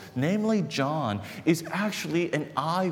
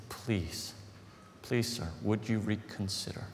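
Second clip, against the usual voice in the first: retold begging; 2 semitones lower, 6 dB quieter, slower than usual. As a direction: plead quietly, as if retelling it. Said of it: "I start to beg him".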